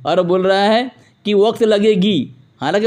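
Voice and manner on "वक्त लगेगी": slow, mocking quote of "लगेगी"; mocked wrong grammar. Debater quoting his opponent's bad Urdu, slow mock quote. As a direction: draw out the faulty "लगेगी" ending in imitation. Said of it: "उसको उर्दू नहीं बोलना आता".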